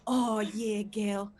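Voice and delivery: mock-seductive Australian ASMR voice; imitated Australian man. ASMR man narrating kisses to the listener, in a put-on Australian accent. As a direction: play an Australian lover talking her through it. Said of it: "You know, he's Australian".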